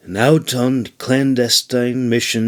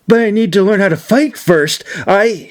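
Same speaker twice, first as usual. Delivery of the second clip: put-on young man's voice pitched well up and a touch louder; a higher voice, anxious to object; Brumir objecting; 9 semitones higher, 4 dB louder than usual. A narrator's reading. Brumir tells Irene he must learn to fight first, higher and pleading.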